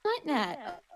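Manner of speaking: put-on high, shocked valley girl whine; mock the snooty college girl; basic white girl voice. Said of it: "Some basic white bitch".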